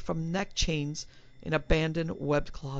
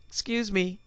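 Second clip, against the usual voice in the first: gasping; 5 semitones higher than usual. Acted. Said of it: "he gasped".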